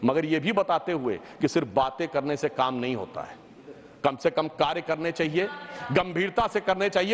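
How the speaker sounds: a pained appeal to the ruling party, said sorrowfully. Real, not acted. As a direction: speak with a heavy heart. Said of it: "दुखी मन से".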